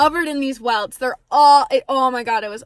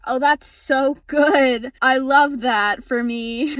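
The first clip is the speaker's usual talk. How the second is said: slow, drawn-out mock approval; retold sarcasm; slower than usual. Hearing they should not have continued, slowly sarcastic. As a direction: stretch it out with dry sarcasm. Retold reply to doctor's mistake.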